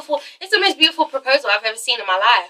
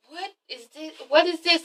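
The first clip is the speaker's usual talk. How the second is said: very soft, confused aside; baffled hiss; 3 semitones higher, 9 dB quieter than usual. Acted. Dancer confused as the music changes, hushed bafflement. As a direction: ask it under your breath, baffled.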